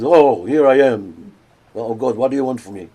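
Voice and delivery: mildly fearful. Acted. Abraham hearing God's voice, mildly fearful. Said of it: "he's fearful".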